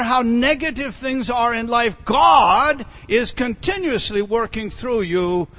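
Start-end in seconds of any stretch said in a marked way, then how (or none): 2.0-5.5 louder, slowed preaching burst; preaching shout. Real, not acted. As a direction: drive the promise home to the congregation. Preacher presses point to congregation.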